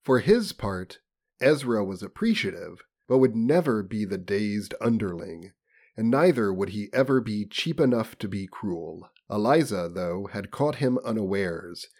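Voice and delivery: measured, formal audiobook delivery; story narration. A narrator's reading. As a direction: read it out like a literary audiobook. Reads novel aloud.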